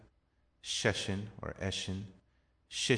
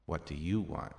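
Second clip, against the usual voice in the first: "you" lifted out of the question; emphatic "you", measured delivery; stress on you; 4 semitones lower than usual. Shown as a demonstration. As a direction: put the weight on "you". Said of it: "indicated by the stress of the voice".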